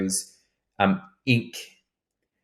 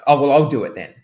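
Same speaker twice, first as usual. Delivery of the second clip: passive-aggressive sigh; 3 semitones higher, 7 dB louder, faster than usual. Shown as a demonstration. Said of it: "something hasn't been done".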